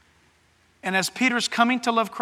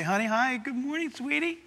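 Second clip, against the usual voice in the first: sweet morning greeting; 3 semitones higher, 7 dB quieter than usual. Acted. Husband greets wife at waking.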